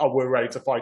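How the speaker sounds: ordinary talk, nothing marked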